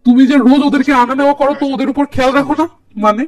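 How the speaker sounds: annoyed. Acted. Husband blaming his wife for not watching the girls, mildly angry. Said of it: "নীরব রেগে মেগে বলে".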